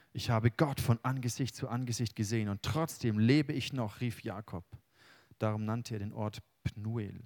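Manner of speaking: solemn reading of the Jakob story; scripture reading. Acted. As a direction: read the passage with weight, unhurried. Reads Bible passage aloud.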